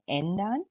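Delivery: एंडान said with an e-like umlaut vowel; umlaut pronunciation. Shown as a demonstration. Teacher repeats एंडान for students, careful umlaut. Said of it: "आप ए ई pronounce करते हैं".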